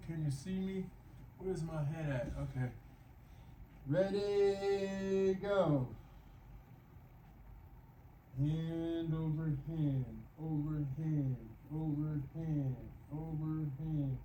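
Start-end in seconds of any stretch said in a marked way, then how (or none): 3.9-5.9 drawn-out high "ready", punchy go; calling out. Real, not acted. Trainer cues the start of the exercise, calling out. 8.4-14.2 measured, stretched-out words; pace each pull with the voice. Real, not acted. Pacing a slow stretch aloud.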